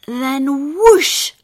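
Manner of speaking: loud burst on whoosh; big whoosh. A narrator's reading. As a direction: let the wind gust out. Narrator's sound word.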